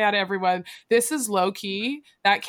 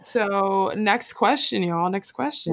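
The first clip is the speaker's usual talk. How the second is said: host announcement; slower than usual. Acted.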